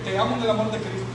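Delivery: quick, rote pious formula; mocking churchy phrase. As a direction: rattle it off like a cliché. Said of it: "el evangélico dice". (fórmula piadosa dicha de memoria, con burla)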